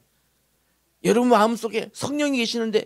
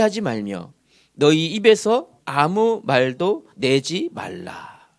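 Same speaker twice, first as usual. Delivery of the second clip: slow, measured reading aloud in unison; scripture reading; 6 semitones lower, slower than usual. Acted. Pastor leading the congregation in a verse, slow scripture reading. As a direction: lead the verse phrase by phrase.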